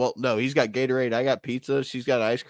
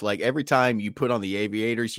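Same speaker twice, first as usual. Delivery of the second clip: ordinary talk, nothing marked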